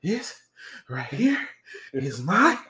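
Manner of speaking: mock swag line, swag pitched high; joke quote. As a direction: say it in halting chunks, swag jumping up. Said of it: "'Cause I was like".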